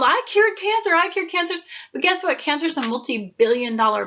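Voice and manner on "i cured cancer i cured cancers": excited announcing. Retold or imitated. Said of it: "So you try to go sell it to the world".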